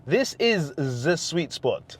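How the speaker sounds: slow, lightly hammed German accent; a mock German accent, slowly. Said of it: "if I was trying to do a German accent".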